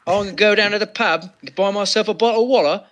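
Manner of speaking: quick mock Cockney, "bottle of water" with dropped t's; old London accent. Cohost showing off an early 1900s London accent. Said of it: "your accent is sort of like the early nineteen hundreds London".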